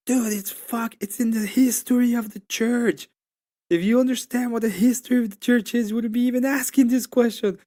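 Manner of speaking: exasperated yelling back at the argument; retold angry rant. Telling a friend how he blew up at Orthodox guys, angry. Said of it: "So I got super angry".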